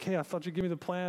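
whiny Jonah. Retold or imitated. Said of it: "And now Jonah's like".

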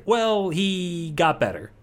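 offhand cover story, stretched out; dismissive explanation. Retold or imitated. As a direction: draw out a glib little excuse. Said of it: "they're just like".

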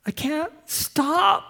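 high and slow, breaking on stop; mild sobbing plea. Acted. Kathy admitting she can't stop drinking, understated sob. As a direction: drag it out like a muted sob. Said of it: "She's now weeping".

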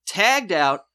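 loud, emphatic reveal; dramatic climax. Real, not acted. Host narrates the credits as proof, dramatic climax. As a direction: build loudly to the big clue.

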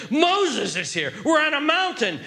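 sudden realization. Acted. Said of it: "they suddenly realized what's going on".

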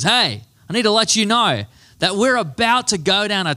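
put-on light New Zealand accent on the hey; imitating the Kiwi guide; the guide's hey in a New Zealand accent. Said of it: "he's from New Zealand".

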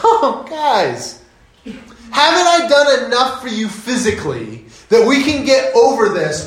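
half-laughing, exasperated plea; laughing Jesus. Retold or imitated. Jesus chiding hungry disciples, half-laughing. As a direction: laugh off their hunger and plead. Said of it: "And Jesus goes".

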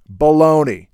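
a loud, falling "Baloney!" of disbelief; indignant retort. Real, not acted. Scoffing at the geologist who denies the floods, loud and indignant. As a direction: snap it back like an outraged scientist. Rebutting the American geologist's claim.

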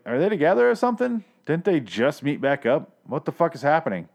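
mildly incredulous, starting high; baffled disbelief. Retold or imitated. Viewer retelling reaction to a sudden kiss, mock bafflement. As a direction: act out a bewildered viewer's questions.

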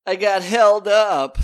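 put-on sad little old man. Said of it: "Hans Molman-y sad".

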